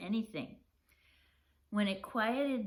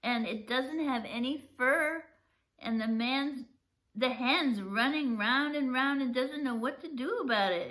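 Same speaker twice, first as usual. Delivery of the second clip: high, loud breathless babble; boy shouting to his family; excited shouting; 5 semitones higher, 4 dB louder than usual. Acted. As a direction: pour the news out in a rush. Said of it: "I shouted".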